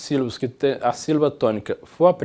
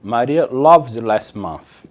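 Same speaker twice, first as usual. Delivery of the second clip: very slow, careful English; slow model sentence; 3 semitones lower, 4 dB louder, much slower than usual. Shown as a demonstration. Teacher reads example sentence slowly to class. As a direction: spell it out slowly for learners. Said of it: "o verbo love terminou em E".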